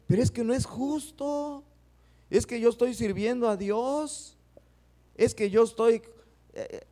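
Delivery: high, aggrieved whining protest; a hammed-up hurt self-pity; mock complaint. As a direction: play the offended believer who feels wronged. Imitating believers complaining to God.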